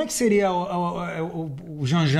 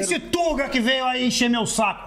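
higher-pitched, drawn-out mock complaint; mock aggressive jibe; 5 semitones higher, slower than usual. Shown as a demonstration. Showing when "Tuga" sounds derogatory, mock aggressive. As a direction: act out an insult, dragging it out. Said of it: "você tá sendo agressivo".

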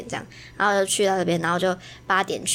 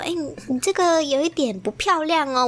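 gentle correction; 6 semitones higher than usual. Retold or imitated. To the little girl about her handwriting, gently coaxing. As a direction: ease the child toward a redo. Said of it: "我是用不漂亮哦".

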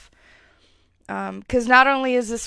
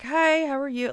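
polite greeting; 5 semitones higher than usual. Retold or imitated. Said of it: "Like, I'm very polite".

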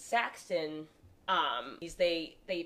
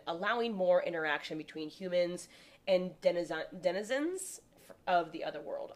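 measured informational read-aloud. Real, not acted. Host reading a history website to friends, read-aloud delivery. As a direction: read it out like an encyclopedia entry.

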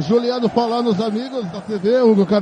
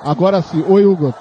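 loud greeting over a bad line; shouting on bad phone line; 4 semitones lower, 7 dB louder than usual. Real, not acted. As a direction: call out to be heard. Checking connection by calling out.

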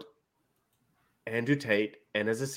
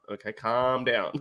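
slow, drawn-out mock soothing; patronizing calm; 2 semitones lower, 4 dB quieter, slower than usual. Shown as a demonstration. Podcast host winding up Armin, patronizing calm. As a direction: stretch it out to needle him. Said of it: "when you wanna piss someone off".

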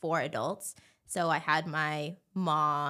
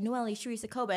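put-on name in a French Canadian accent, pitched up; 4 semitones higher, faster than usual. French Canadians saying her name before teasing, imitated French Canadian accent. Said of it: "they'd say my name".

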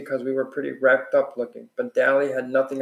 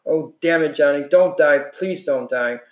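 desperate pleading. Acted. Dally begging over dead friend.

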